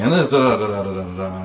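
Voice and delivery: rattled-off nonsense syllables imitating a politician; mock double-talk. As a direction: parody empty political waffle in da-das. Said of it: "just double speaking himself to death".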